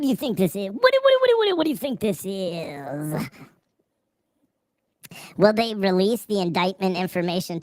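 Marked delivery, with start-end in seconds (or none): 0.7-3.3 a squawk of fake indignation; hammed-up offended what; mock outrage.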